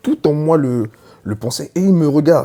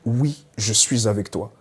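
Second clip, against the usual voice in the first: resonant voice of God; 3 semitones lower, 4 dB quieter than usual. Retold or imitated. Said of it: "il y a une voix qui résonne".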